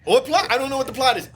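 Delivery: mock the very idea of a plot; incredulous. Real, not acted. Friend scoffing at the movie's plot, high incredulous voice.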